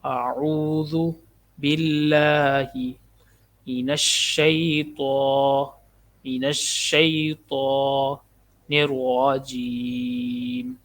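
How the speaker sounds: slow, careful tajweed recitation; correct recitation. Shown as a demonstration. Teacher reciting the whole phrase correctly, slow. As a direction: recite it slowly and precisely. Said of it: "اب ہم اسے درست طریقے سے پڑھتے ہیں".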